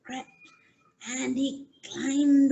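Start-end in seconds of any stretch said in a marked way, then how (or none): 0.0-0.3 hushed, fading repeats of crept; storyteller hushing as the mouse creeps; creeping quietly. A narrator's reading. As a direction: let each crept get softer, like tiptoeing. Creeping mouse told softly.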